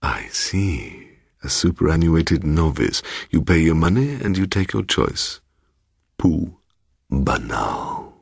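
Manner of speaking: put-on lightly scoffing fussy old man; dismissive old gentleman. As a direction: sniff at it with disdain. Mister Bloom scoffs.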